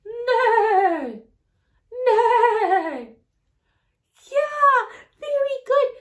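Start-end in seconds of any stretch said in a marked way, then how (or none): 0.0-3.1 imitating a horse's neigh; playful neighing. Shown as a demonstration. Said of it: "What sound does a horse make?".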